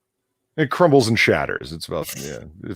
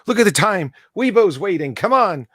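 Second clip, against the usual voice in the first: impatient; 11 semitones higher, 3 dB louder than usual. Retold or imitated. Impatient in line, quoted self.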